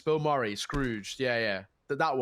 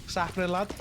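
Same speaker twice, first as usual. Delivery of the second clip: light Scouse accent; 2 semitones higher than usual. Shown as a demonstration. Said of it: "Blackpool's very close to Liverpool".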